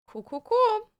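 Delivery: high, bright fake cheer; sarcastic cheer. Real, not acted. Stressed about the all-nighter, in fake high cheer. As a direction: chirp it with forced cheer.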